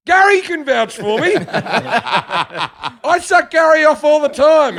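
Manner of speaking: high, loud campy falsetto with laughter; mock sassy trans woman. Arrested woman pleading at the station, in a high campy voice. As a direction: ham up the sassy plea. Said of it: "she's like".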